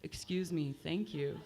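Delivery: low, soft flat monotone excuse me. Shown as a demonstration. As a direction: drone it with no melody at all. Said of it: "you'd be screwed if you were monotone".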